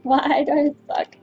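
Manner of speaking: slow, laughing self-mockery; laughing frustration. Real, not acted. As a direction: laugh at your own failure. Laughing at own failure.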